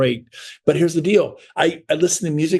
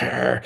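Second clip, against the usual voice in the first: low mock growl; imitated dog growl; 3 semitones lower, 4 dB quieter than usual. Dog answering a threatening person, imitated growl. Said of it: "He's like".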